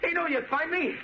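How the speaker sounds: high, wild voice, unhinged; crazed. Acted. Danny threatening the Shadow with a grenade, high and crazed. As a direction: sound like he's lost his mind.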